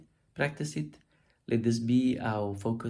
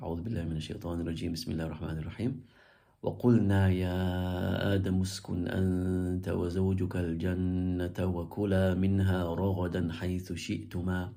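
measured Quranic chant on a level tone; even, melodic recitation; much faster than usual. Shown as a demonstration.

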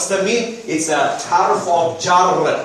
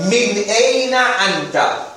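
slow model; 3 semitones higher, slower than usual. Shown as a demonstration. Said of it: "Everyone repeat".

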